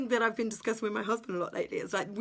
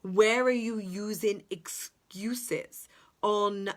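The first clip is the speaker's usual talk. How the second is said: whispered; slower than usual. Real, not acted. Closing reflection.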